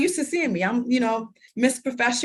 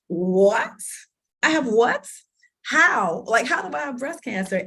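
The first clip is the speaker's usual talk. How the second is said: stunned disbelief; 3 semitones higher, 3 dB louder than usual. Retold or imitated. Reliving hearing the diagnosis, loud and incredulous. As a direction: ask it like the ground just fell away. Reacting to cancer diagnosis news.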